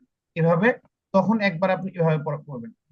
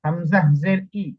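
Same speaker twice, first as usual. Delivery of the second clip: slow, deliberate spelling of each sound; slow model reading; slower than usual. Shown as a demonstration. Teacher showing the student how to read, slow and deliberate. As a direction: read it out slowly so it can be copied. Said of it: "এভাবে পড়বেন।".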